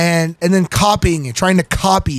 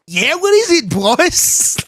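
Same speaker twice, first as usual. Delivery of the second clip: put-on voice; 8 semitones higher, much slower than usual. Repeats the put-on voice.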